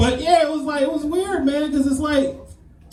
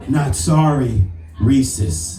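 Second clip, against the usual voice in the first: slogan read; 6 semitones lower, much slower than usual. Retold or imitated. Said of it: "You guys know their saying".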